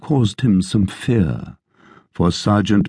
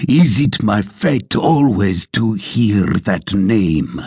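blustering sergeant; 2 semitones higher, slower than usual. Acted. Sergeant's tirade.

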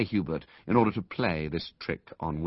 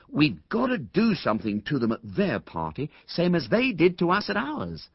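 firmly; 9 semitones higher than usual. A narrator's reading. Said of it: "said Ginger firmly".

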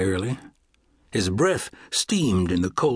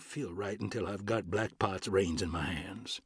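whispering; 13 dB quieter than usual. Acted. Quiet line before leaving.

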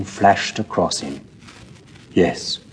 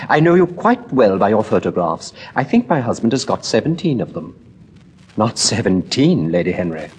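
fluttery society lady; 3 semitones higher than usual. Acted. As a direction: rattle on like a flustered hostess. Narrator voices Lady Henry.

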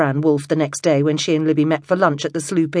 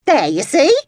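high, louder, told-you-so; pleased with herself, pitched up; triumphant; 10 semitones higher, 6 dB louder than usual. A narrator's reading. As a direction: crow a small victory. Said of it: "said Alice in triumph".

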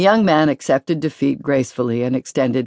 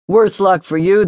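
good-natured; 5 semitones higher, 4 dB louder than usual. A narrator's reading. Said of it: "he said good-naturedly".

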